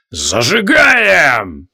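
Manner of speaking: slow, drawn-out sinister cry with a laugh; evil chuckle. A narrator's reading. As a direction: laugh it out with menace. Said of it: "зловеще хохотнул Мангор".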